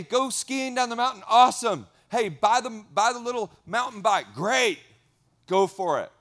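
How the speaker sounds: a hint of God, cheering the listener toward adventure; God's encouraging voice. Pastor voicing God urging the congregation to adventure, lightly voiced. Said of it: "He says".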